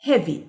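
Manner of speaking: "Heavy" with EA as one short sound; vowels run together. Shown as a demonstration. Teacher proving the two letters make one sound, vowels blended in "Heavy". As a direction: say "Heavy" crisply, E and A never separated. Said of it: "ده دي على بعضها".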